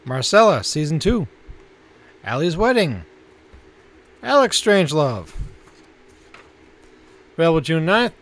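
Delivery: announcer-style list reading; listings read. Acted. Co-host announcing this month's new Netflix titles, measured announcer read.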